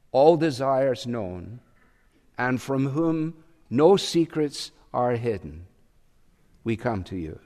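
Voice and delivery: a hint of a priest reciting the collect; solemn prayer reading. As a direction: read it like an officiant at communion. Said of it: "reads in part like this".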